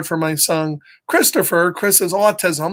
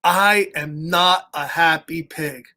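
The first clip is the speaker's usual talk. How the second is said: grumpy Piggy; 3 semitones lower, slower than usual. Acted. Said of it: "So Piggy's like".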